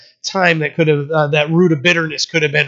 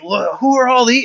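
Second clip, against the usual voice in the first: bright, high joyful question; 7 semitones higher than usual. Retold or imitated. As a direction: let the joy of reunion lift it. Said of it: "You can hear the joy in what's being said".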